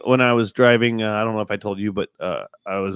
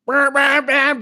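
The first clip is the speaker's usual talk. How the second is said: high, repeated horn blasts; imitated car horn; 11 semitones higher, 3 dB louder, much slower than usual. Lady still honking behind him, imitated horn. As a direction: honk it out in high bursts. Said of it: "she's still honking".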